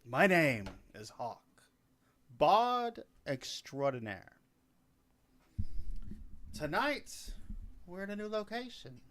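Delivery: lightly theatrical bard addressing his audience; grand greeting with deliberate pauses; bard's stage introduction. Acted.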